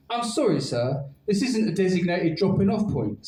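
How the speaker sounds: lightly voiced robot greeting; flat mechanical robot voice. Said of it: "said the robot".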